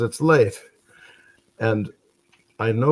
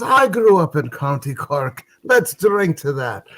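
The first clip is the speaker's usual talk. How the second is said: higher, excited drinker's toast; drunken delight; 5 semitones higher than usual. Acted. One drunk brother to the other in a bar, delighted. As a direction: exclaim it high, drawing out the toast. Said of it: "had his share of the drink".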